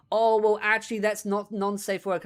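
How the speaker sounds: lightly voiced smug correction, mimicking; mock smug Demi. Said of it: "And it's like".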